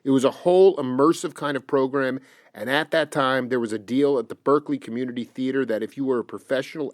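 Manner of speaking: quietly reciting someone's account from the page; reading aloud. Real, not acted. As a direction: read out an interview quote evenly and low. Reads an interview quote aloud.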